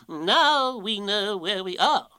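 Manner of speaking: slow, high, loud owl voice; drawn-out storybook owl, relieved; relieved Owl, pompous. Acted. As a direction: declare it grandly as Owl.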